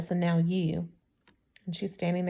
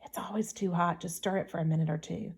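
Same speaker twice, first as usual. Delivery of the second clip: whispered; 2 semitones lower, 7 dB quieter than usual. A narrator's reading. Girl to boy bending toward the straw, hushed whisper. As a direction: say it softly, voice dropped, as if whispering. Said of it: "but she whispered".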